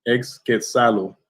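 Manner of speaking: X Quetzalo with Spanish accent, slowly. Shown as a demonstration. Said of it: "I'm saying it in Spanish, uh, accent".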